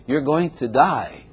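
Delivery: slow, softened delivery of bad news; gentler death warning. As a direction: break it to them slowly and kindly. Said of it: "don't say it like that. Say".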